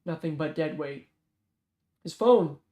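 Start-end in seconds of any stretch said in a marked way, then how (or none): 2.0-2.6 louder call across the room. Acted. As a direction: call it out to him. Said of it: "Reagan called out".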